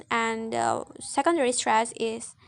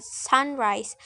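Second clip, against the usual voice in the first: "sunrise" with SUN stronger, rise lighter; stress on first syllable. Shown as a demonstration. Student giving compound noun example, "sunrise" stressed on SUN. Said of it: "the stress in the first syllable".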